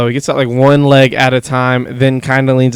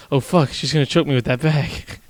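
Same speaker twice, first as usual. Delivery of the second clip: paranoid inner voice; 4 dB quieter than usual. Retold or imitated. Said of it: "Charlie's mind".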